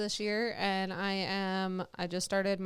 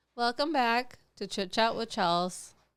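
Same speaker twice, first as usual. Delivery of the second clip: irritated, annoyed tone; 3 semitones higher than usual. Welcoming listeners back to the show, sounding annoyed. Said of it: "why did you sound so annoyed?".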